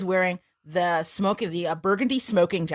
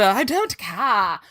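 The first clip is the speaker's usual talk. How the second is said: Clarice impression; 4 dB louder, much slower than usual. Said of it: "She's like".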